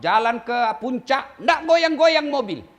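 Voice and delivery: ordinary talk, nothing marked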